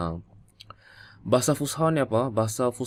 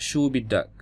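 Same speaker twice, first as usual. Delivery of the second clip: Levantine Arabic; 3 semitones higher, slower than usual. Shown as a demonstration. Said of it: "dalam bahasa Syam adalah".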